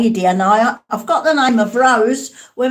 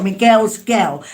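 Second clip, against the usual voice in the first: put-on "Me girl's girl" said lightly in Cockney, "me" for "my"; a hint of a Cockney gran; light Cockney imitation. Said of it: "she would have said it like that".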